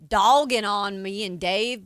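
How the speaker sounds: slipping into a Tennessee drawl; Tennessee accent. Real, not acted. Co-host complaining about being teased over the numbers game, slight Tennessee accent. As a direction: let a little Tennessee twang slip out. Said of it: "Why did you just go Tennessee with it?".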